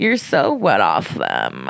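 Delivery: low, slow drawl. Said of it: "your Mary impression".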